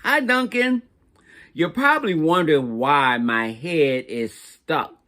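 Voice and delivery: a sweet, slightly whiny little crayon asking for rescue; stuck turquoise crayon. Acted. Turquoise crayon writes a letter.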